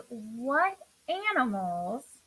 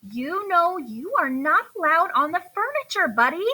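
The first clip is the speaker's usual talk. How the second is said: higher, louder scolding; 5 semitones higher, 6 dB louder than usual. Acted. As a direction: tell him off like a cross mom. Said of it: "she scolded".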